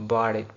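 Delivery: tapped middle t in "bought it"; flap D rule. Shown as a demonstration. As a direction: say "bought it" as "bawdit". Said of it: "उसी rule के मुताबिक".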